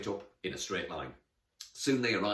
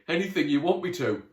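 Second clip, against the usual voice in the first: higher, louder lovestruck gushing; dreamy sigh; 7 semitones higher, 9 dB louder than usual. Acted. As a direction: gush it as if smitten. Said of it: "sighed dreamily".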